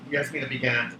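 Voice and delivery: plain reading voice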